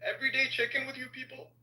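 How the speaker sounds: high-pitched, mock-exasperated put-on voice; put-on incredulous scolding. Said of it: "I was putting on".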